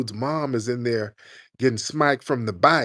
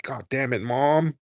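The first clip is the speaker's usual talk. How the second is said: whiny mock outburst, rising higher; mock upset son; 5 semitones higher, 3 dB louder, slower than usual. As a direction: whine at his mom. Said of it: "And he's like".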